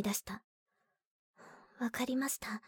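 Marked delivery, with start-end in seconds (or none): 1.8-2.6 hushed. Acted. Quiet reply after disappointment.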